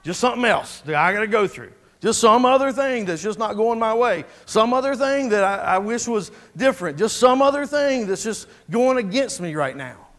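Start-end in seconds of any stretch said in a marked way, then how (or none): 2.0-10.1 exasperated complaint. Acted. Preacher voices our reaction to hard times, exasperated. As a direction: complain as if throwing up your hands. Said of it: "throwing our hands up and saying".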